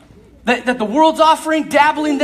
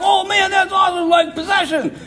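mock thrill-seeker; 8 semitones higher than usual. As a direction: play the shallow fan of possession stories. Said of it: "sit back and be like".

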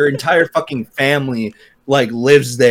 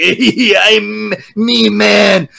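mock bro; 7 semitones higher, much slower than usual. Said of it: "thinks, like".

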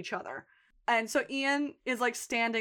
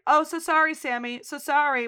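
breezy mock-apology, a touch higher; imitating an offhand, insincere sorry; nonchalant; 5 semitones higher, 5 dB louder than usual. Sheila hosing her neighbour while talking on, nonchalant. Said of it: "like, nonchalant".

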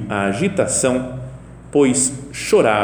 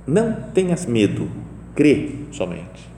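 calm reassurance; 2 semitones lower than usual. Retold or imitated. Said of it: "É o que Jesus fala".

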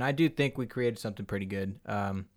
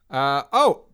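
loud sudden shout; 4 semitones higher, 12 dB louder than usual. Shown as a demonstration. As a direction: yell it out, louder. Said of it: "No, I'm not gonna shout".

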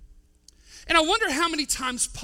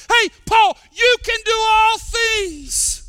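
much louder and higher, a slow ringing call; shout; 9 semitones higher, 12 dB louder, slower than usual. Retold or imitated. The Holy Spirit shouting encouragement to Paul, loud. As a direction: call out to Paul with full force. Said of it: "shouted out in his soul".

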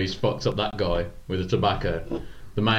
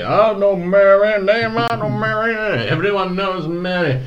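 mocking crowd; 11 semitones higher, 7 dB louder than usual. Saloon man to the gunslinger, jeering loudly. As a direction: belt it out like a rowdy saloon crowd.

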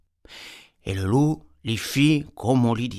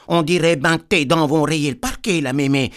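put-on little girl voice; 3 semitones higher, 4 dB louder than usual. Girl questioning granny.

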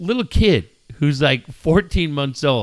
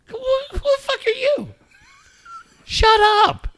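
mock yell. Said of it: "and I'm like".

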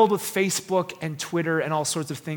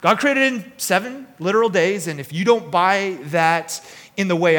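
put-on Texas accent; 2 semitones higher, 4 dB louder than usual. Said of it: "he would say this to me".

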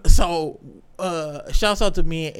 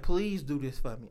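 low, soft imitation of pleading; mock moaning; 4 semitones lower, 8 dB quieter than usual. Man imitating a partner's request, mock moaning. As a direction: softly mimic a moaned request. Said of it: "she was moaning and shit".

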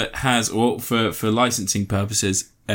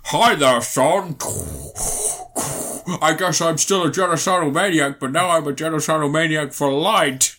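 a hint of a gentle Vader; lightly voiced cheery Vader; lightly voiced Darth Vader; 3 semitones higher than usual.

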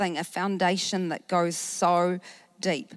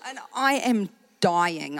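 slow, laughing through the words; slower than usual. Real, not acted. Preacher telling the congregation how absurd it was, laughing. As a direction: let the laugh spill into it.

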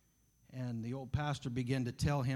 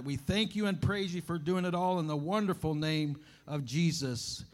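earnest prayer. Real, not acted. Preacher praying to God before the message, earnest prayer. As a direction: pray aloud, pitched up and flowing. Prays aloud for congregation.

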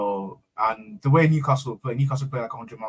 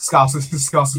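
mock Scouse accent; 5 dB louder, slower than usual. Mocking the Scouse accent at derby.

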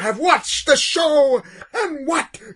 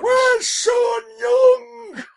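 slow, high mock yell; mock shout; 12 semitones higher, much slower than usual. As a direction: demand it like a cheated fan. Mocking old fans' complaints.

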